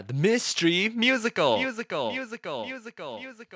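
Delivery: booming announcer with echo. Retold or imitated. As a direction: imitate the show intro, echoing. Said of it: "he'd be like".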